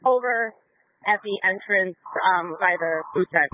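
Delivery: crackly police radio voice; radio dispatcher chatter. Real, not acted. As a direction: talk like over a squad radio. Police radio scanner traffic.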